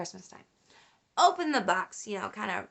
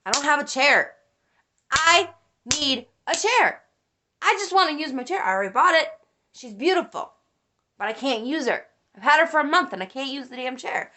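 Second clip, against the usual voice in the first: exasperated mock rant, higher at first; retold mad complaint; 4 semitones higher than usual. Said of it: "That's why I was so mad".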